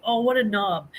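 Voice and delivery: lightly put-on British accent; amateur attempt at a British accent. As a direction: slip into a playful, rough British accent. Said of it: "thinking in a British accent".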